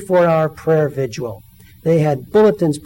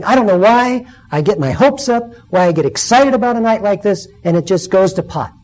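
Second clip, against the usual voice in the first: mock rant; 4 semitones higher, 4 dB louder than usual. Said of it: "she's ranting a little bit".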